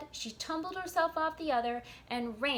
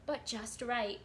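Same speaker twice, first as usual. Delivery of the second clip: put-on lively read-aloud for children; storybook narration. A narrator's reading. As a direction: tell the tale to little listeners.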